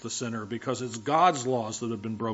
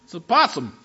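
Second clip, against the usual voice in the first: higher and louder, alarmed; startled realization; 5 semitones higher, 7 dB louder than usual. Retold or imitated. Spotting a possum in the dark, startled and loud. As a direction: blurt it out in fright. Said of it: "they're frightening".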